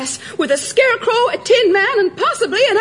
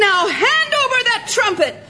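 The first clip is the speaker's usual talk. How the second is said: higher-pitched stern command; scolding order; 4 semitones higher than usual. Acted. Girl disarming the cowed elephant, scolding. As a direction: order it like telling off a culprit. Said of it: "don't yell at me".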